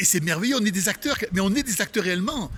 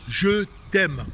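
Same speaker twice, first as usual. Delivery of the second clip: said with feeling; 3 semitones higher than usual. Shown as a demonstration. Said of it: "on apprend à dire".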